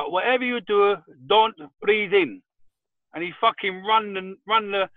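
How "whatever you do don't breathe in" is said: lightly imitated broken Turkish English, slow on don't breathe in; a hint of a Turkish barber's broken English, drawn out. Turkish barber warns the customer, light broken-English imitation. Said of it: "in broken English".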